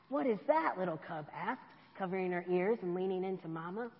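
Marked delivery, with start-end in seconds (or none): 0.1-0.8 startled. Acted. Ice chunk crashes loudly.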